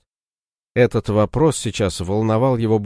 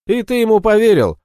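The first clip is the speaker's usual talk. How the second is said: much higher, incredulous jab; mock disbelief; 13 semitones higher, 6 dB louder than usual. Ратибор подначивает Дрозда, с наигранным изумлением. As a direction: feign amazement at his gullibility.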